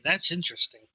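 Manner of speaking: earnest, straightforward reaction; genuine interest. Real, not acted. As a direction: insist that you really do mean it. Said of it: "Like, no, genuinely".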